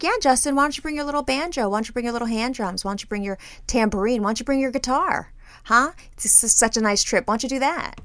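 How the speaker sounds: sarcastic teasing. Retold or imitated. Mocking her husband's reluctance.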